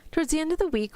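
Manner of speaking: a light British accent on Towards the end of the week. Shown as a demonstration. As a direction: read it as a mild British storyteller. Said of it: "give it a good British accent".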